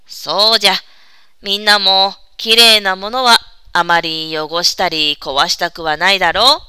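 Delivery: lightly voiced kindly old man; creaky wise old man. Old monkey grandfather explains.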